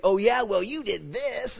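a hammed-up spousal comeback. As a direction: snap back at a husband. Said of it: "it's just like you say".

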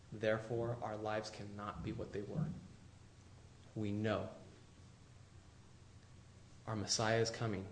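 hushed earnest appeal. Real, not acted. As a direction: lean in and plead gently.

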